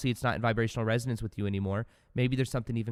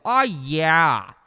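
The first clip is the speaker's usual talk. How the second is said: Pauly D shout; 3 semitones higher, 6 dB louder than usual. Retold or imitated. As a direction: ham up a party catchphrase. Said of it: "He'd go".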